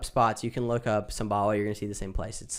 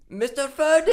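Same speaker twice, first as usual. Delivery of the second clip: high, loud call into the dark; yelling; 13 semitones higher, 6 dB louder than usual. Retold or imitated. Imitating the worker calling his boss at night, loud yell. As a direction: shout a name across the yard. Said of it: "he starts yelling into the mist".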